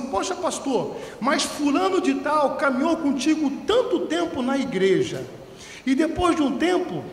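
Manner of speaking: mock complaint, starting high and easing down; complaining church member. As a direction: imitate an aggrieved member listing grievances. Acted complaint of departing member.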